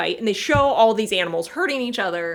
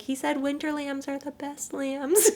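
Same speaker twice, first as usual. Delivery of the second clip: tender whisper; 5 semitones higher, 6 dB quieter than usual. Retold or imitated. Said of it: "he's like".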